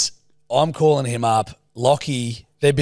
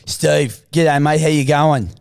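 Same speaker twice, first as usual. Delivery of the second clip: Stephen's voice; slower than usual. Acted. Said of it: "it's Stephen's voice".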